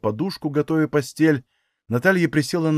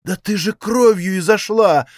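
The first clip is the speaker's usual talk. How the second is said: sobbing cry; 5 semitones higher than usual. Acted. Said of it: "всхлипнула Ильинична".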